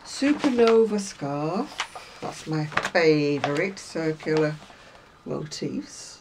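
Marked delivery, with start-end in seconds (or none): 2.2-6.1 slow, drawn-out sarcastic delivery. Real, not acted. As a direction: lay on the fake enthusiasm, slowly. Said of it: "the sarcasm in my voice".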